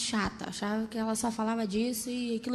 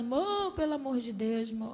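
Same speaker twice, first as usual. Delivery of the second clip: put-on, slow, tearful crying voice. Retelling a phone call made while crying: retelling own crying plea. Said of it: "Já liguei chorando".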